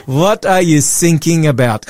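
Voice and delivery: mock-German coast guard question; hammed-up German accent for a joke; bad German accent. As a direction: put on a terrible German accent. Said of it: "worst German accent on the planet".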